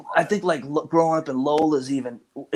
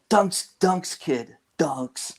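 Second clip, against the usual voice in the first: mock Boston accent; 2 semitones higher, much slower than usual. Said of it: "No, I'm kidding".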